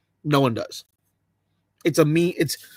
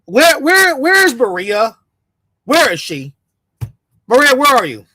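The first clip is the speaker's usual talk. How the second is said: loud high call for Maria; 4 semitones higher, 3 dB louder than usual. Acted. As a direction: shout across the room for her. Calling out for Maria.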